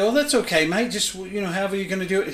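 lightly put-on Australian accent; casual mock-Australian quote. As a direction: imitate a friend with a hint of Australian. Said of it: "That's my Australian accent".

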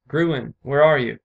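loud, slow, drawn-out call; shouted call. A narrator's reading. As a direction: call across the grounds for a missing daughter. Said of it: "her father shouted".

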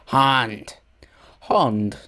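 "hand" said as "hahnd"; British accent. Retold or imitated. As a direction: mimic "hand" with a long British "ah". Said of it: "British accent or something".

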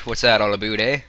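mock Canadian accent. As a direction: ham up a Canadian "eh". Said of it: "so I'm allowed to talk like that".

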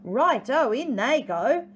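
high, loud storybook ho-ho; hearty acted laugh running into delighted words. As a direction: crow it out, high and loud, as a merry dingo. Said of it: "Dingo laughed".

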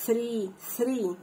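"three" starting with the ث sound; unvoiced TH in three. Shown as a demonstration. Teacher giving a TH example, "three" with voiceless th. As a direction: breathe out the th in "three". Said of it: "ومرة تتنطق ث حرف الساء".

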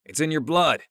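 high, loud teasing quip; quipping. A narrator's reading. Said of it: "Jordan quipped".

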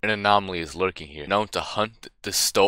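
low, hushed horror-trailer voice; dramatic narrator. Pretend. Gamer reading the game's warning text, spooky narrator voice. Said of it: "too early for me to be talking like this".

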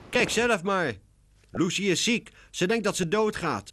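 high, loud worried cry; alarmed cat. A narrator's reading. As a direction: sound the alarm. Cat faking alarm to catcher. (gealarmeerd, hoog)

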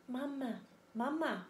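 put-on small, soft baby-bird peep; lightly voiced little gosling. A narrator's reading. Newborn gosling calls to the robot for its mother, peeping. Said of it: "peeped the gosling".

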